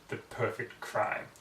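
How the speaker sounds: slow, breathy whispered aside to herself; smug whisper. Acted. Pony gloating to herself after fooling the librarian, slow whisper. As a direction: whisper it slowly, a sly little secret.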